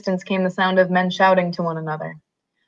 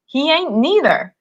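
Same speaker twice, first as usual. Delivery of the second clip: belligerent retort; 3 semitones higher than usual. Acted. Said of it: "retorted belligerently".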